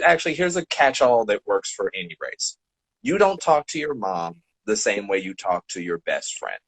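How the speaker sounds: usual speaking voice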